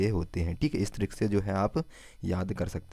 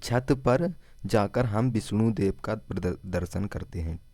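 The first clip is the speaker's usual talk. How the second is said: slow mnemonic. Shown as a demonstration. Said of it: "Vishnudeo को कैसे याद रखेंगे?".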